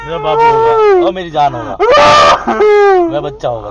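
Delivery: high, crying pleas; soothing him while crying yourself; tearful consoling. Real, not acted.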